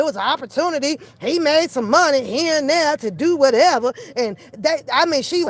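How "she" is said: ordinary talk, nothing marked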